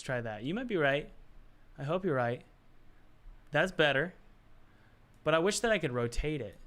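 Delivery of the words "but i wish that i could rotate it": a slightly theatrical, wistful wish; odd delivery. Real, not acted. To the viewers, wishing he could rotate it, a touch theatrical. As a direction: say it like a little dramatic sigh of longing. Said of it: "I don't know why I said it like that".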